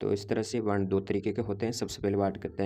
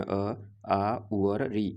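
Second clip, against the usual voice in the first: slow letter demo; much slower than usual. Shown as a demonstration. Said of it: "जिसमें".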